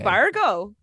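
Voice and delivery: Fargo-style Minnesota accent, round vowels. Shown as a demonstration. Co-host showing off regional voices, Minnesota accent. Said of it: "you can really do it".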